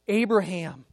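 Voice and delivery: a firm, echoing summons by name; solemn call to someone. Acted. God calls out to Abraham.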